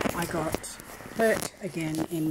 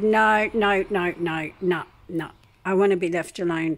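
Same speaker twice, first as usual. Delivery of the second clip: louder insistent no's; retold firm refusal; 7 dB louder than usual. Refusing to sit beside the man, mock loud refusal. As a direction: push the nurse away firmly.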